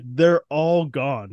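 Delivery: slow, heavy grieving words; stunned, slow mourning; slow grief. Retold or imitated. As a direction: let each word sink in despair. Xavier grieving the dead mutants.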